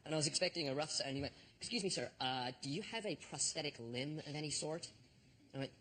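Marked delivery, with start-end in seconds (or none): 1.6-4.9 imitating a courteous security officer; gently official, careful and polite. Airport guard asking a traveller about his limb, polite. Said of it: "diligent and polite at the same time".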